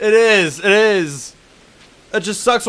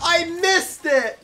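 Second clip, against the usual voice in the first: loud, higher cry of dismay; frustrated shout; 5 semitones higher, 4 dB louder than usual. Real, not acted. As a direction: yell at the missed jump. Misses jump in game.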